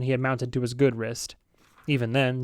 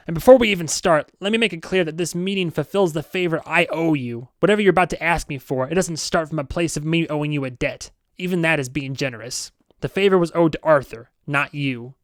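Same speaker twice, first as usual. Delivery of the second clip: curt boss; 3 semitones higher, 4 dB louder than usual. Acted. Chaub voiced in story.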